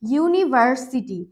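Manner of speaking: ইউনিভার্সিটি drawn out slowly, yu at the start; slow model word. Shown as a demonstration. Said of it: "এখানে প্রথমে কিন্তু উচ্চারণটা ইউনিভার্সিটি".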